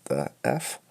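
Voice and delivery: high, soft, drawn-out "what the F"; mock shock. Retelling his reaction to the Jar Jar scene, hushed mock shock. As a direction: gasp it out in mock disbelief. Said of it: "I was like".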